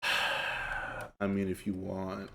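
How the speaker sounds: low, soft, unenthused monotone; sigh, then mumble a reluctant agreement in monotone; monotone brother. Retold or imitated. Brother half-agreeing to an outing, soft monotone. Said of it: "except he's monotone".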